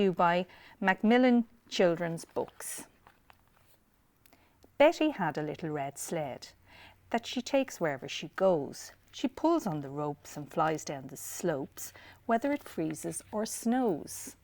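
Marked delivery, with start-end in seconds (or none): 4.8-14.3 put-on lilting read-aloud for children; picture-book narration; storytelling. A narrator's reading.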